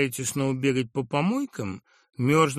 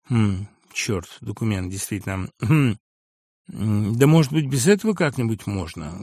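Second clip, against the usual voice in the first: 1 unsure and weary; 3 semitones lower, 5 dB louder than usual. Acted. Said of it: "неуверенно и тоскливо".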